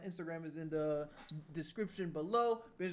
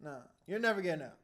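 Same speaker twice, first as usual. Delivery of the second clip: fast, then a much louder shouted demand; angry shout; 17 dB louder than usual. Real, not acted. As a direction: yell it at the screen, fed up. Reacting angrily to killer's plea.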